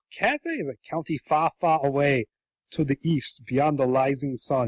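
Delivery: lightly voiced mock Chinese accent; a hint of Chinese caricature, slowing at the end; Lindfarn Worm. Dragon describing faraway Cathay, light mock Chinese accent. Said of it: "And so he goes".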